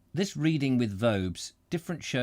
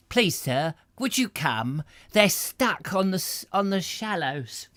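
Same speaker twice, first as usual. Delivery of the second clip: higher, pleading lad's voice; lightly voiced boy; errand boy; 8 semitones higher, 4 dB louder, slower than usual. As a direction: beg like a breathless village boy. Narrator voices a lad.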